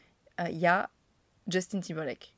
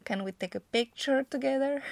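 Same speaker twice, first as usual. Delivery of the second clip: higher, timid starstruck English question; stammering starstruck English; 7 semitones higher than usual. Retold or imitated. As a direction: ask shyly like a flustered fan. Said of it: "j'arrive à bafouiller un pauvre".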